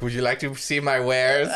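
lightly voiced creepy merchant with a laugh; mock-creepy offer of wares, half laughing; creepy shopkeeper. Friend playing a creepy mall dweller, laughing lightly. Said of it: "I become the creepy mall ghost".

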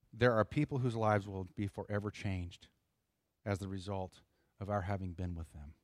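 slow, weighty reading of a quote; slow deliberate reading. Shown as a demonstration. Pastor reading a quote slowly to his congregation, solemn. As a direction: let each word land, slowly. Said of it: "If you didn't catch that".

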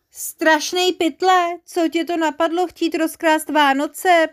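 high, loud indignant rebuke; slow emphatic opening, scolding question. A narrator's reading. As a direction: lay into the villain. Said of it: "pustil se do strašného pytla".

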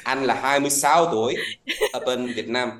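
hesitant Vietnamese with a slight foreign accent; non-local Vietnamese accent. Real, not acted. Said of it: "got a bit of an accent".

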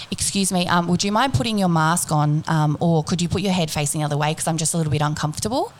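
mildly polite, restrained asking; polite request. Retold or imitated. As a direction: retell a careful, courteous request. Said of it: "I was being very polite".

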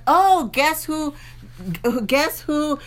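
slow, drawn-out sarcastic greeting; mock husband sarcasm. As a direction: needle the late arrival. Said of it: "if he's being sarcastic".

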